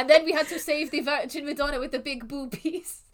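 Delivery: bad French accent that slides into vampire; lightly hammed Nando impression. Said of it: "I sound like Nando".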